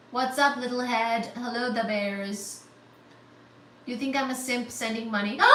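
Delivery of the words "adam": high, drawn-out squeal of thanks; thrilled amazement. Real, not acted. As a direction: gush in high-pitched disbelief. Thrilled at a donation.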